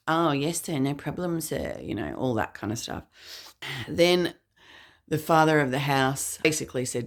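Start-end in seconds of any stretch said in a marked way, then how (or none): 0.1-1.8 sneering parody of a polite "yes sir"; teenage lads taunting a polite boy; mocking imitation. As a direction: throw his own polite words back at him in mockery. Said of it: "mimicking him".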